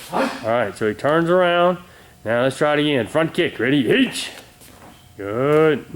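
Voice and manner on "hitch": sharp high drill call; called command. Real, not acted. Instructor calling the kick count to Stephen, sharp high call. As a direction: bark the count to the student.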